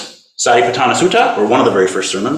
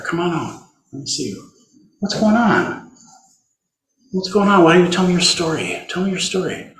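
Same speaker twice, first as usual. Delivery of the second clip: put-on gentle voice for a child. Shown as a demonstration. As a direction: coax it gently out, as to a hurt child. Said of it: "language that we would use with a child".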